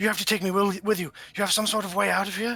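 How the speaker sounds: begging and pleading. Voicing a chained prisoner clawing at a player: begging and pleading. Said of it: "begging and pleading with you".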